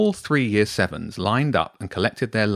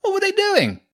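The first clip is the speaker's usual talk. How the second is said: put-on high-pitched, loud boy's questioning; loud interruption; 12 semitones higher, 4 dB louder than usual. A narrator's reading. Hugo butting in about the rats, loudly. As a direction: butt in noisily, voice pitched high. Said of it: "Hugo cut in".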